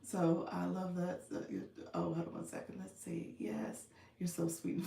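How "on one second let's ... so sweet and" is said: whispering. Real, not acted. Whispered aside laughing.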